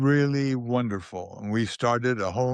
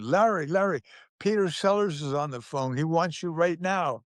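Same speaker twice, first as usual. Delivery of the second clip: higher-pitched retold call across the salon; imitating the receptionist calling out, pitched up; mock yell; 6 semitones higher than usual. Receptionist calling Larry back to the phone, mild mock yell. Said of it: "receptionist yells at".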